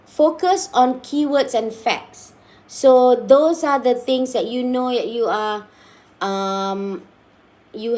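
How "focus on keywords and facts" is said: each word drawn out slowly; a teacher dictating a tip to her class, slowly; slow read-out. Shown as a demonstration.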